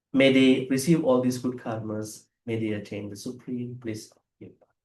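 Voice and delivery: measured, solemn blessing; merit dedication prayer. Real, not acted. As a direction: dedicate the merit to the departed in an even voice.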